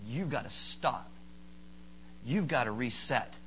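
low, hushed, firm instruction; calm firm God. Acted. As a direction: settle someone down quietly but firmly. God's calm voice, acted out.

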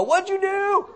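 mock preacher demand. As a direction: bark the question at the newcomer. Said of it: "grab a hold of David Bokin and go".

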